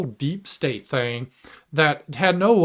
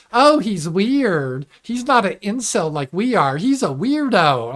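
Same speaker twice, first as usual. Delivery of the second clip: higher, slow sneering whine; mock critic; 5 semitones higher than usual. Streamer mocking right-wing critics, higher and slow. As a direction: drag it out like a petty critic. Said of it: "people on the right were like".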